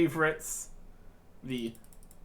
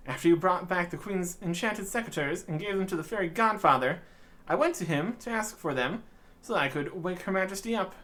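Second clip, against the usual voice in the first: a higher, relieved little fairy; 4 semitones higher than usual. Acted. Fairy greeting the adventurer, lightly higher relieved voice. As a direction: voice the glad fairy a bit higher.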